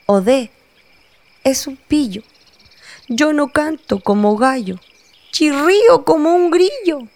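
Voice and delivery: high, playful rabbit voice; high squeaky rabbit; chirpy rabbit. Acted. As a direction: rabbit teasing Odé. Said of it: "un conejo ... dijo".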